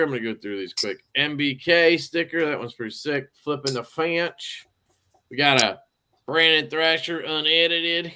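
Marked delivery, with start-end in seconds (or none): 5.3-8.1 Appalachian twang on Brandon Thrasher; hillbilly accent. Real, not acted. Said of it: "I don't know why I said that like a hillbilly".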